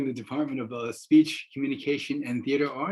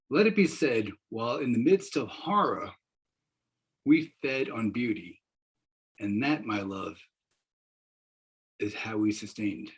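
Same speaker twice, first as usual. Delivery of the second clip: poem recital; 3 semitones lower than usual. Shown as a demonstration. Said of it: "To quote the great American poet Rita Dove".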